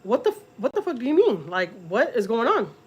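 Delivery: incredulous, stretching out the last question; retold alarm. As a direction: re-enact bewildered outrage. Frantic mother questions girlfriend.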